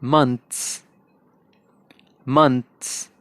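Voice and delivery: मंथ्स in an Indian accent. Shown as a demonstration. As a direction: Indian English months. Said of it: "Indian".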